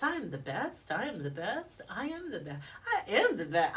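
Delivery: rhythmic chanted affirmation; building cadence. Shown as a demonstration. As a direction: repeat it in a steady, rolling cadence. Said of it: "it starts to gain a cadence".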